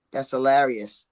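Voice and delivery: imitating a comic's unlaughing praise; deadpan approval. Comedians hearing another's joke, amused only inside, deadpan. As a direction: say it with no laughter showing. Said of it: "They don't even look like they're laughing".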